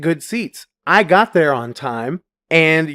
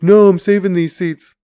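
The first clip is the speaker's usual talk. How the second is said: put-on kid's insistence; 5 semitones higher, 5 dB louder than usual. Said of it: "And he's like".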